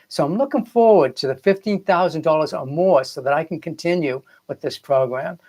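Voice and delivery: lifted, eager look-forward tone; hopeful reframing. Shown as a demonstration. Coach showing clients the right way, upbeat and expectant. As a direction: say it as if the money's already coming. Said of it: "learn to rework the way I speak".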